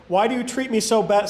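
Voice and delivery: even, deliberate reading with lightly weighted key words; scripture reading. A narrator's reading. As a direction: read Bible narrative aloud in measured phrases. Reads scripture aloud.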